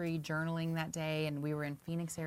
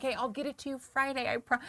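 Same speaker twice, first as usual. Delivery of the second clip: higher-pitched, mildly mimicked phone promise; placating promise; 7 semitones higher than usual. Answering calls from people needing money, placating. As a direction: imitate stalling someone with a raised voice.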